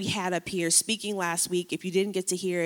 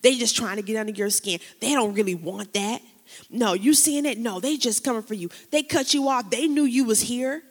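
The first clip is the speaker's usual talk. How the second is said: the enemy's voice. Retold or imitated. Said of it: "Here's how it sounds sometimes".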